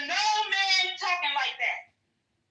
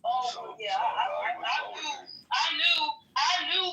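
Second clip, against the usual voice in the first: lower, mumbling caught-out guy, half laughing; mock sheepish man; 4 semitones lower than usual. Mocking a man admitting he knew about the STD, sheepish. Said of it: "You still fucked her?".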